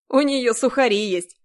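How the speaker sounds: mocking duty officer teasing her. A narrator's reading. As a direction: tease her from the window. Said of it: "насмешливый голос".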